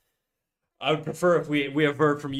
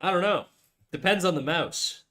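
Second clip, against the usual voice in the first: pitched up, mock-puzzled; "I don't know" said higher with a falling, knowing tune; higher, emphatic repeat; 5 semitones higher than usual. Real, not acted. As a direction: toss it back with a raised, exaggerated shrug. Repeats answer, second more emphatic.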